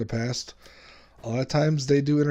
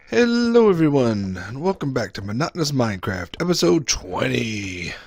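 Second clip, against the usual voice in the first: YouTube intro. Acted. Clip montage of episode intros.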